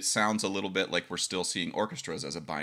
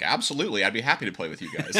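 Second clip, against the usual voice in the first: eager yes; 3 semitones higher, 5 dB louder, faster than usual. Retold or imitated. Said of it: "and I'm like".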